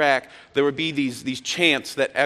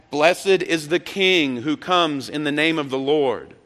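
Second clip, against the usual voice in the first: slow, mildly raised crowd call; retold yell back; 3 semitones higher, 3 dB louder, slower than usual. Preacher voicing pilgrims answering down the mountain, slow half-yell. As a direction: draw out the answering shout. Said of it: "they would yell back".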